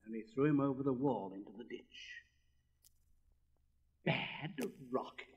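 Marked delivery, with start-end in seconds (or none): 4.0-5.3 puzzled repeat. Acted. Rocket repeating the boy's insult, slow and puzzled. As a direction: turn the word over in disbelief.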